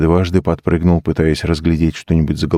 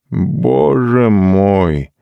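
slow, higher «Боже мой!» squeezed out with effort; forced out; 4 semitones higher, much slower than usual. A narrator's reading. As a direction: push «Боже мой!» out as if words are hard to find. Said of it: "наконец выдавил он".

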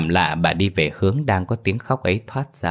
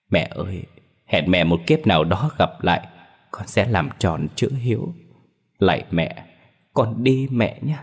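tearful farewell. Acted. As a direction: bid mother a last, tearful farewell. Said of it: "Anh rơm rớm nước mắt đỏ hoe". (nghẹn ngào vĩnh biệt mẹ)

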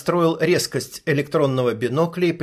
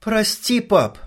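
quiet apology; 7 semitones higher, slower than usual. Acted. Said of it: "тихо добавила".

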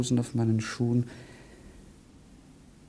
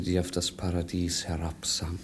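geflüstert; 3 semitones lower, 5 dB quieter than usual. Acted. Whispered night invocation.

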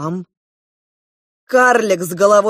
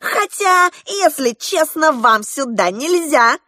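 high clown voice dropping to slower teasing; 8 semitones higher, 3 dB louder than usual. Acted. Клоун продолжает. (высокий клоунский голос, дразнит)

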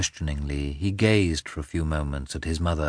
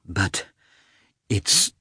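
recovering from tears; 4 semitones higher, 3 dB louder than usual. A narrator's reading. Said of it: "after a pause when she had recovered".

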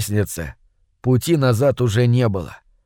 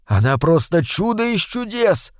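lightly voiced admiring mutter, pitched up; 7 semitones higher than usual. A narrator's reading. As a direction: murmur it in awe, but only lightly. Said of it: "восхищённо пробормотал Соня".

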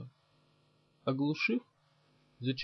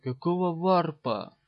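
slow, louder gasp of disbelief; exhaled oath; 3 semitones higher, 5 dB louder than usual. A narrator's reading. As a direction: breathe out a drawn-out, startled curse. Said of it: "выдохнул убивец". (выдох изумления)

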